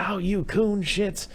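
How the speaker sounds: high, slow hammed-up hick dad; mock scolding drawl; lightly voiced angry father. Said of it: "he's like".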